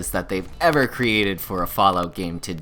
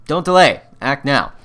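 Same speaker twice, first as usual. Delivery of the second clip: excited TV shopping channel pitchman, higher and louder; home shopping host; 4 semitones higher, 6 dB louder than usual. Acted. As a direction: sell it like a late-night infomercial host. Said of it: "my little excited shopping channel host impression".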